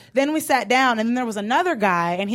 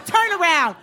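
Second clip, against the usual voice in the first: mock command; 5 semitones higher than usual. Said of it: "They're like".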